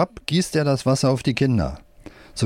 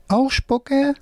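squeaky puppet voice. A narrator's reading. Left-hand puppet speaks.

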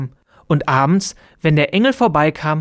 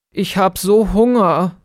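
higher, small bird voice; peeping little bird; 4 semitones higher than usual. A narrator's reading. Hungry bird answering the angel, high little peep. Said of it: "piepste Zizi Bä".

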